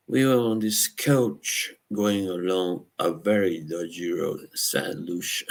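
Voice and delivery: lightly imitated Cockney accent; mock Cockney storytelling voice; Michael Caine. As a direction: retell it with a hint of Cockney. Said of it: "that Cockney accent".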